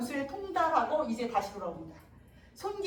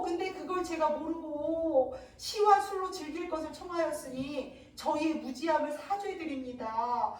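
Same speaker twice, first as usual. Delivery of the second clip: teasing mock apology; 2 semitones higher than usual. So Unseong mock-apologizing to weeping Songgi, teasing. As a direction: apologize with exaggerated, stretched endings. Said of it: "이러면서 약 올리는 거야".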